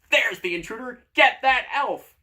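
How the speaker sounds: high, loud screamed alarm; shrill door yelling, slowing on the command. Acted. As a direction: scream the order to the guards. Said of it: "The door screams".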